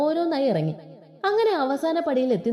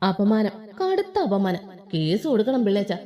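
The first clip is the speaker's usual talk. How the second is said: mock melodrama. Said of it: "Michu ആത്മകഥം പറഞ്ഞു".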